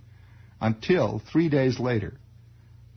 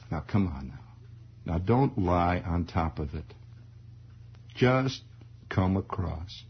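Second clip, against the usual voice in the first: lower, softer man-to-man voice; low soft father coaxing his son; 6 semitones lower, 4 dB quieter, slower than usual. Retold or imitated. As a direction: soothe the boy into confessing.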